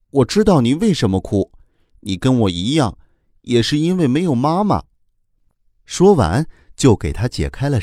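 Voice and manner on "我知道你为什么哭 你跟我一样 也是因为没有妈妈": earnest. Acted. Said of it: "小龙人儿恳切地对哭哭说".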